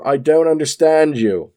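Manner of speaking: put-on puzzled captain in a poor Australian accent; terrible Australian accent. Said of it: "my terrible Australian accent coming out there".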